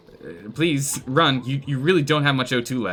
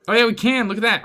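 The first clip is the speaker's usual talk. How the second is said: excited exclaim; 10 semitones higher, 8 dB louder, faster than usual. Real, not acted. Surprised the colonist succeeds.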